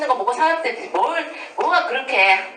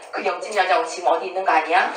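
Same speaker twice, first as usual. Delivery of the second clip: quick, lower mock-suspicious mutterings; acted suspicion; 4 semitones lower, faster than usual. Wife imagining her absent husband with the neighbor, mock suspicion. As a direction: voice a jealous spouse's racing suspicion. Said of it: "계속 의심하는 거야".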